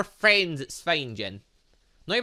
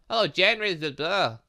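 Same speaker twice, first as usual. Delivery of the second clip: ordinary talk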